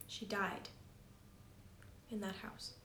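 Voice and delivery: eerie hushed whisper. A narrator's reading. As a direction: breathe it out in a whisper. Eerie reveal of death.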